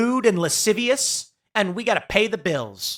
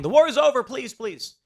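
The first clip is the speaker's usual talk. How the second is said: higher, hammed-up begging fading away; mock pleading; 6 semitones higher than usual. Hamas voiced as begging for peace, mock plea. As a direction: beg like a cornered enemy.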